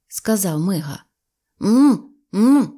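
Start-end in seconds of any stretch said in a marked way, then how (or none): 1.6-2.7 gagged mumbling "м, м"; muffled mumble through a gag. A narrator's reading. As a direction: mumble through a rag in the mouth. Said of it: "знову промимрив Скуперфільд". (невиразне мимрення крізь кляп)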